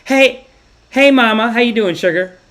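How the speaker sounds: loud, high, sugary nurse greeting; sweet nurse impression. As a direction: gush at a patient like an over-sweet nurse. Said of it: "every sentence, she'd have two nice things".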